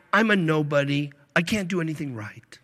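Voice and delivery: fading falsely humble whine; mock meek self-pity. Preacher imitates fake humble member, mock self-pity. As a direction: play the fake humble nobody. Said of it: "you say things like".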